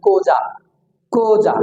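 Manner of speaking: "কোজা" said with a long o; correct pronunciation. Shown as a demonstration. Teacher gives students the real pronunciation, carefully modelled "কোজা". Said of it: "আসলে উচ্চারণ হবে".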